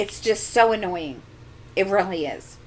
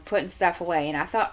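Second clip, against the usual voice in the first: normal talking voice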